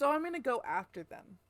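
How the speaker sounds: talking through hiccups; hiccuping. Real, not acted. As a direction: hiccups breaking the words. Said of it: "I keep hiccuping and burping".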